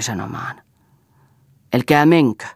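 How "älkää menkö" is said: louder, urgent command; roared plea. A narrator's reading. Delirious Elsa stopping the others from leaving, a mild roar. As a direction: raise the voice, though short of a full roar. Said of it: "karjasi Elsa".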